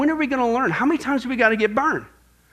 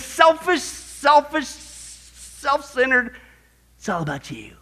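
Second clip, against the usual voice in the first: mock whisper; much slower than usual. Preacher mimicking the selfish inner voice, whispered. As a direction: whisper it like a tempting voice.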